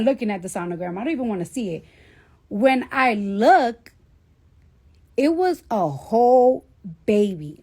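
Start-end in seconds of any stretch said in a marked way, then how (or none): 2.5-7.6 whispered. Real, not acted. The moment she sees sonogram.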